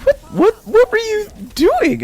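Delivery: high, loud incredulous yell; mother yelling. Retold or imitated. Mother confronting her son, high incredulous yell. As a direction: demand an answer like a stunned mom.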